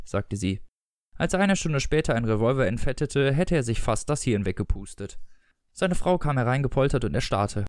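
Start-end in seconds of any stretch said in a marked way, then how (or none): 1.1-7.6 measured audiobook narrator; story narration. A narrator's reading. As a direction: read it out as literary narration. Reads a story aloud. (Erzählstimme einer Lesung)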